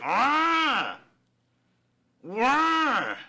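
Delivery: high, loud mock battle yell; rage scream. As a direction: belt out a hammed-up berserker roar. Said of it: "He's just like".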